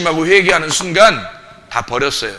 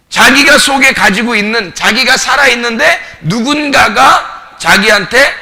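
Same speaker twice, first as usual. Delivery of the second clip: raised, insistent sermon voice; higher-pitched pulpit delivery; impassioned preaching; 5 semitones higher, 6 dB louder than usual. Real, not acted. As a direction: lay out the case forcefully to the congregation.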